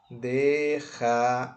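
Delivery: "Déjamela" split slowly into dé, ja, me, la; syllable by syllable. Shown as a demonstration. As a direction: say "Déjamela" with a pause after each syllable. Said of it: "vamos separar as sílabas". ("Déjamela" sílaba por sílaba, devagar)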